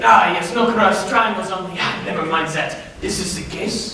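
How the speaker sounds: a lightly put-on French accent. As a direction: play a hammy fake French chef in a French accent. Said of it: "Why are you talking in a German accent?".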